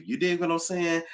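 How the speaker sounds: a touch of New York accent; accidental New York accent. Real, not acted. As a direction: slip briefly into New York talk. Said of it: "was that a New York accent?".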